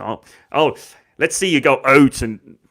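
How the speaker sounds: put-on botched Canadian accent; failed Canadian accent attempt. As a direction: have a half-hearted go at Canadian. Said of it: "can't do the accent".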